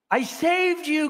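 high, slow anguished cry; cried out. Acted. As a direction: plead with the snake, pitched high and dragged out. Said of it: "cried the woman".

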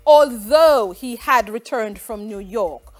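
reading test options in a put-on foreign accent, nasal vowels on James. Teacher reads quiz options to students in a put-on foreign accent. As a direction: hold a comic put-on foreign accent through the whole lesson. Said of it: "I am going to read the options with an accent".

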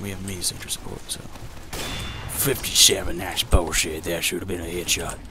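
a hammed-up announcer persona addressing the folks; put-on commentator voice. Gamer narrating to his viewers in a put-on voice. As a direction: play a mock commentator narrating his match. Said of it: "I cannot talk like this anymore".

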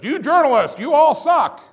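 mock-shout the insult at the press; angry yell. Politician insulting all journalists, mock angry shout. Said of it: "he says".

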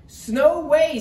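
loud, high exclamation; elf's refusal. A narrator's reading. Elf at Santa's door to Turkey, loud high refusal.

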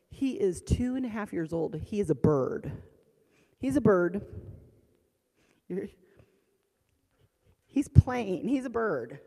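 loud, emphatic insistence; exasperated husband. Retold or imitated. Husband dismissing wife's worried phone call, exasperated. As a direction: hammer it home, fed up.

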